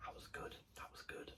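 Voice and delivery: breathy hushed whisper of delight; savouring the day in a whisper. Retold or imitated. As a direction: whisper it like a private thrill. Coming back from a railway visit.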